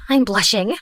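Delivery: breathy bashful whisper. Acted. Girl flustered by Lewis's praise, whispered. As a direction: whisper it, embarrassed.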